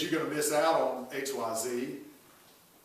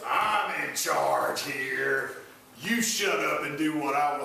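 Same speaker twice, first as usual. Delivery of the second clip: abusive husband. Retold or imitated. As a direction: lightly play the domineering husband. Abusive husband voiced in sermon.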